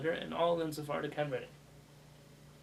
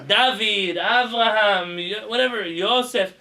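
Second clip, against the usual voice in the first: friendly name calls; 5 semitones higher, 11 dB louder, slower than usual. Shown as a demonstration. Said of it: "People that you're close to".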